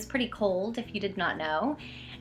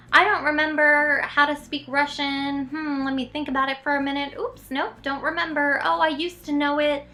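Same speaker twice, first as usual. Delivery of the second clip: imagined sheepish excuse; 4 semitones higher than usual. Retold or imitated. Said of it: "I could have said".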